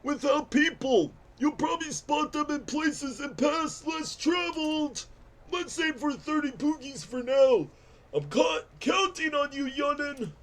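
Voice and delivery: lightly voiced old codger; a hint of a gruff old-timer; old man voice. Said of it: "the old man voice is normally easy for me".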